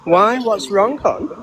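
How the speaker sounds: patronising sweet tone; condescending. Real, not acted. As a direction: talk down to them gently. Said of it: "you sound very condescending".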